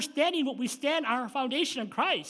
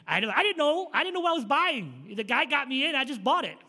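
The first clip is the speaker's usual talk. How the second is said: raised, pleading self-defence; higher, insistent mock excuse; defensive protest; 3 semitones higher, 3 dB louder than usual. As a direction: protest innocence to a scolding sister. Defending himself to scolding sister.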